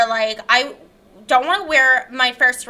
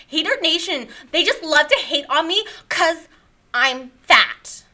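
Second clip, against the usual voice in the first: self-pitying guest character; 3 semitones higher than usual. Acted. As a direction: protest like a misunderstood victim. Character blames the Hater Nation.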